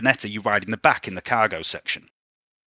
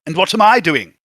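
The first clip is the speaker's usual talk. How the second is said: lightly voiced Otto; 8 semitones higher, 9 dB louder than usual. Otto pipes up.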